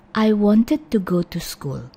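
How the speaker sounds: slow, careful reading of wanted. Shown as a demonstration. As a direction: say "wanted" slowly with a full "id" ending. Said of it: "Kalau pelan-pelan".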